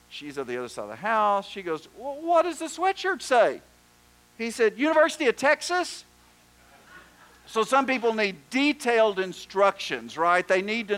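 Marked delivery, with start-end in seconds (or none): 2.0-3.6 high-pitched imitation of the wife; calling back. Wife answers from across the house. 4.8-6.0 high, projected husband's reply, acted out; calling out. Husband calls back his answer.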